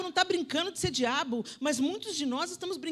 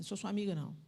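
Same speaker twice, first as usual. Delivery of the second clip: mother to daughter; 6 semitones lower than usual. Retold or imitated. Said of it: "virei pra minha filha e falei assim".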